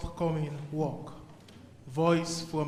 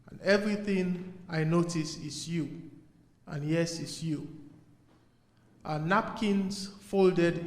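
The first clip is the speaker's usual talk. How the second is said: deliberate poetry reading, pausing between phrases; poem recital. Acted. Poet addressing his father in verse, measured recital. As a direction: recite it as verse, each image set apart. Reads own poem to audience.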